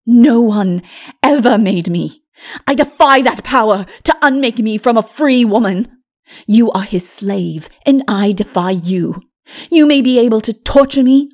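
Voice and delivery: loud, fast, scornful defiance; defiant sorceress. Acted. Lilith to Mara, loudly refusing to be compelled. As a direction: throw the challenge in her face.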